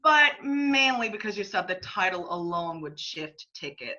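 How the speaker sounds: heckling shout. Acted. Javier heckles John's noble claim.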